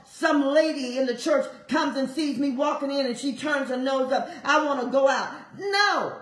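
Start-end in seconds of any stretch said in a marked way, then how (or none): 5.6-6.2 higher, louder, NOT stressed; fervent preaching. Real, not acted. Preacher declaring to the congregation, fervent and loud. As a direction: rise up and declare it.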